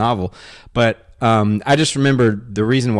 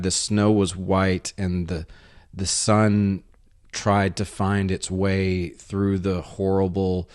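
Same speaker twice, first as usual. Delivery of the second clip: imitating Finnish prose; slower than usual. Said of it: "that's not a very good imitation".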